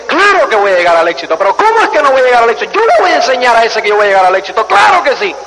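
rapid, fired-up defiance; fast cocky self-belief; defiant resolve. Retold or imitated. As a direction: rattle it off like you're proving them wrong. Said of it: "coge y dice".

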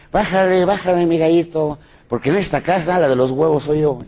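légère voix de poule effrontée, un peu aiguë; poule insolente. Retold or imitated. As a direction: remets le coq à sa place, en poule culottée. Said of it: "la gallina, así media, decía".

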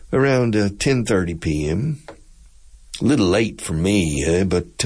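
laid-back pilot with a Texas drawl; easygoing captain's announcement in a Texas drawl. Acted. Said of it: "that type of accent in the drawl".

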